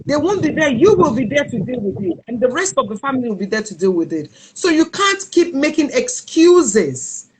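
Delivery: retold stern warning. Brother confronts her about her weight.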